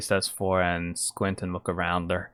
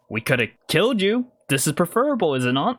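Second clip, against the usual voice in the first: lightly voiced snake kidnapper; 7 semitones higher, faster than usual. Kidnapper argues with captive.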